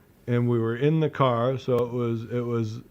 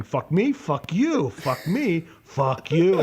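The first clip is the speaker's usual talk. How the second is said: higher-pitched, retold indignant chant; escalating outrage; 4 semitones higher, slower than usual. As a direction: alternate question and retort, building up. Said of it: "I started escalating now".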